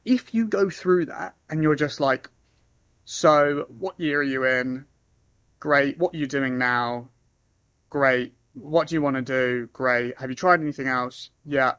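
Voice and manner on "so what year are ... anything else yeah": bored questioning. Shown as a demonstration. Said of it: "It's not very fun".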